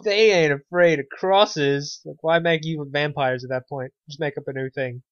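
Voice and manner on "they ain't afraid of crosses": slow, drawn-out mock voice, louder; mocking quote. Podcaster mocking lazy vampire rewrites, slow sneering voice. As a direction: sneer it out slowly like a bad movie pitch.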